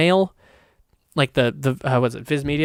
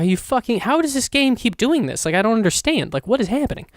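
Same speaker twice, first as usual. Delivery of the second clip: pitched-up, baffled protest; exasperated disbelief; 6 semitones higher than usual. Retold or imitated. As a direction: recount your bewilderment in a higher voice. Acted baffled reaction to game news.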